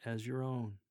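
vulnerable close. Shown as a demonstration. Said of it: "Then a vulnerable one as you close with".

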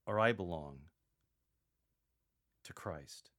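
earnest and grave, stress Christ; serious and sincere. Shown as a demonstration. Paul naming true allegiance to the Corinthians, sincerely. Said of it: "in a very serious and sincere tone".

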